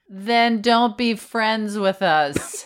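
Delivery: slow laughing dare. Real, not acted.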